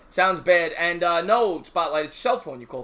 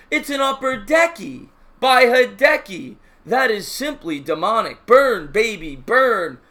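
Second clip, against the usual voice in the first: lightly voiced radio announcer calls; half-hearted imitation of a play-by-play call; home run call; 4 semitones higher, 4 dB louder, slower than usual. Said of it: "there are so many good ones".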